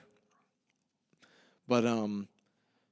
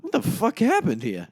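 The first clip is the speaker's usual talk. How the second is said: high-pitched mock outrage; Paulie going off; 9 semitones higher, 4 dB louder than usual. Paulie seeing Charlie's trashed place, imitated outburst. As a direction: imitate him flying off the handle. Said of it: "he just goes off".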